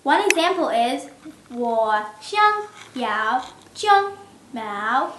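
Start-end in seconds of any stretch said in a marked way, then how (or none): 1.5-5.1 我想要 Mao said with the wrong tone on Mao. Shown as a demonstration. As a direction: Mao in the wrong tone, meaning chest hair. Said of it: "common mistakes".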